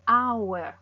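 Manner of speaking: "Hour" with no sound for the H; silent H. Shown as a demonstration. Teacher proves the H is not sounding, silent H. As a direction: start "Hour" straight on its vowel. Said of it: "esa H no está sonando".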